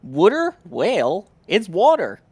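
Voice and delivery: "Water" said "wudda", high and loud; Boston "wudda" for "Water"; Boston accent. Shown as a demonstration. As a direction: drop the r's in "Water" like a Bostonian. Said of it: "Robert Keeper, coming in saying".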